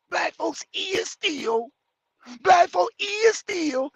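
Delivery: high, slow mock; mocking bad grammar. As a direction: drawl the error mockingly. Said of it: "my biggest goddamn pet peeve".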